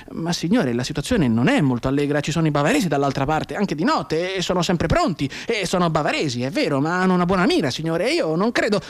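hint of a nervous corporal; worried corporal. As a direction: argue up to the officer. Corporal objects to colonel.

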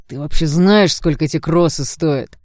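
loud, slow furious bark. Acted. Blond barks at the girl about his ruined sneakers, loud and furious. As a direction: bark it straight in her face. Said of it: "рявкнул он".

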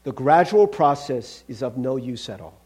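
low, measured angel voice; firm angel. Acted. Angel rejecting the gradual process, firm. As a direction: rule it out with calm firmness.

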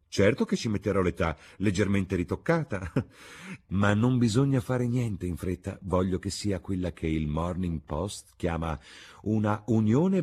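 high, lively chatter with a little laugh; merry hostess. Acted. Hostess promising to arrange a happy match, merry.

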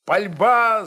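plain reading voice

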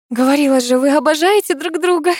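nervous cheer. A narrator's reading. Heroine covers awkwardness.

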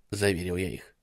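ordinary delivery, nothing marked

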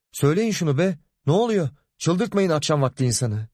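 father losing patience; father demanding to know what's wrong; exasperated father. Acted.

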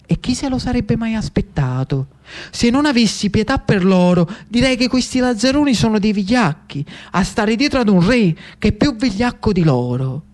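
coolly scornful lady of the salon; lightly voiced noblewoman. Pimentel answers the news. (la Pimentel, nobildonna sprezzante, voce un po' più alta)

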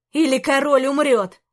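a sharp, loud shouted order. Acted. Antey shouts at the guards, loud. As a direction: bark it loud to hold the guards back. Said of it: "крикнул Антей".

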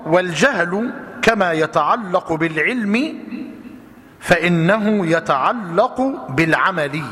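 each phrase slowed down for note-taking; slow dictation. Shown as a demonstration. Teacher dictating to students, slow and deliberate. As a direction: read it slowly so they can write it down. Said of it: "اكتب يا أخي الفاضل".

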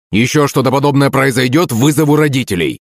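high-pitched, insistent scolding; stern coach. A narrator's reading. Teacher warning then hurrying a pupil, insistent.

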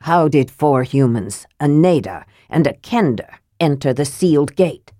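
a dwarf lord demanding the strangers explain themselves; a mild stern demand. Acted. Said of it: "Armen demanded".

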